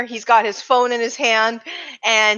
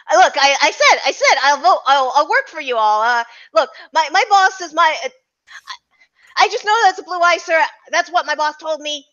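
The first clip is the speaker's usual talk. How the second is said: higher, stammering accountant voice; nervous accountant; 5 semitones higher than usual. Acted. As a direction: plead in a higher voice, tripping over words. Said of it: "Oh, sorry, wrong voice".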